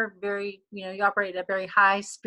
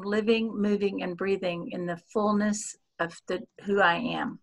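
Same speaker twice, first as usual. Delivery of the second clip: whispered affirmation. Acted. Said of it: "leads an affirmation".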